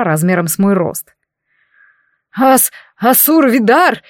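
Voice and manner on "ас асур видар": высокий, медленный, надломленный писк; заблей испуганно, пищащим голосом; писклявый голос. Acted. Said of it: "надломленным, пищащим голосом заблеял". (испуганный писк с запинкой)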